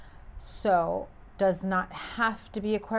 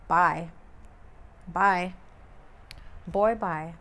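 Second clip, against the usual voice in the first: louder, sassy brush-off; loud dismissive bye; 4 dB louder, slower than usual. Pretend. Fed-up Gemini dismissing the person who stalled her plans, loud sassy goodbye. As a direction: wave them off for good, loud. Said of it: "you turn into this Queen of Swords saying".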